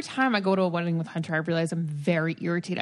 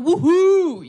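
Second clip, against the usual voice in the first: mock drunk whoop; 8 semitones higher, 8 dB louder than usual. Imitating drunk guests cheering.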